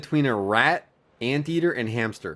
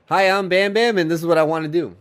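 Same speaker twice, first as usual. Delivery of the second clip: TV stunt show introduction; 4 semitones higher than usual. Acted. Podcaster imitating a stunt show opener, mock announcer intro. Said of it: "He's like".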